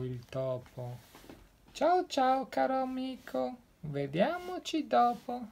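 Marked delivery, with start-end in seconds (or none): 1.7-5.5 high, quick nervous farewell; lightly voiced nervous owl; hasty owl goodbye. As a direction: rattle it off and flee. Owl hurriedly says goodbye.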